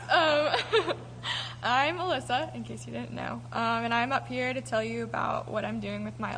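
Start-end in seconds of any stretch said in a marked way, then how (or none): 0.1-1.6 a nervous giggle on um; jittery little laugh. Real, not acted. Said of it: "so I'm sorry if I sound nervous".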